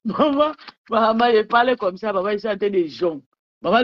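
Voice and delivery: high call of maman. Real, not acted. Calling her mother while drinking, high call.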